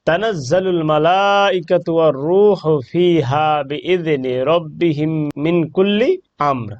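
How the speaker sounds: slow chanted recitation; Quran recitation. Shown as a demonstration. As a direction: recite the verses slowly and melodically. Recites the surah verses. (ধীর সুরেলা কুরআন তিলাওয়াত)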